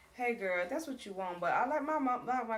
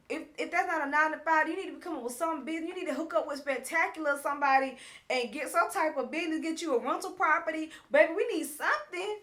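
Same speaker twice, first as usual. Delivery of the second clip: louder, higher, insistent urging; heated argument; 5 semitones higher, 5 dB louder than usual. Retold or imitated. Woman telling her man they need income, heated. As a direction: press your partner hard, raised voice. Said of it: "so they yelling back and forth".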